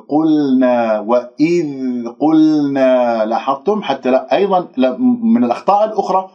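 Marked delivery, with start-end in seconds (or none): 0.1-3.3 slow chanted Quranic recitation of "وإذ قلنا" with a clean voiced ذ; "وإذ قلنا" drawn out, ذ and ل held cleanly; correct recitation. Shown as a demonstration. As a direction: recite "وإذ قلنا" slowly, ذ voiced without a puff of air or bounce. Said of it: "لا أعتمد عليه بنطق حرف الذال".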